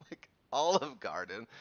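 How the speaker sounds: put-on incredulous echo in own accent; amused, questioning disbelief; retold disbelief. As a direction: repeat it back as a baffled question. Retold disbelief at cop's tip.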